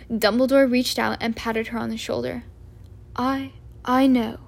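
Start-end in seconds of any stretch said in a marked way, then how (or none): 3.1-4.4 weighed down by the news; understated heavy sorrow. Acted. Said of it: "he said heavily".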